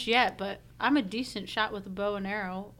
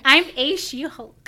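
slow, louder line through laughter; laughing joke; 6 semitones higher, 7 dB louder than usual. Real, not acted. Cohost riffs on pronouns, laughing. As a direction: crack yourself up on the pun.

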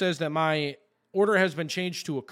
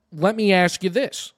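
louder, pointed challenge; confrontational; 6 dB louder than usual. Retold or imitated. Customer challenging store phone staff, confrontational. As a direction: press the clerk firmly.

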